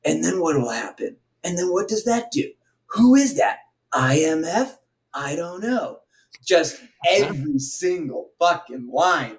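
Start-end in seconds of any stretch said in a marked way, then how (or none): 0.0-6.0 mock British actor's stilted American accent; same-tone, overdone American accent impression; bad American accent. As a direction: mimic a badly faked American accent, pitched up. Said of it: "his American accent blows balls".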